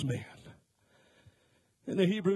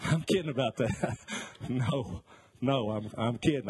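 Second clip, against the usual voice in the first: laughing it off; 2 semitones lower than usual. Real, not acted. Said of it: "I'm just kidding".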